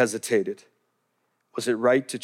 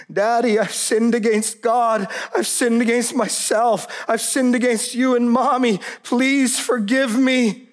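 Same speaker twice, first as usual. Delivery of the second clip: pleading confession; 7 semitones higher than usual. Retold or imitated. Daughter's tearful confession to father.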